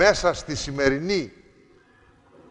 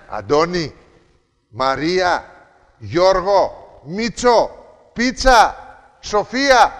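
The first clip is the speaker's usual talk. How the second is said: calling names; 3 dB louder, slower than usual. Retold or imitated. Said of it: "Φωνάζει".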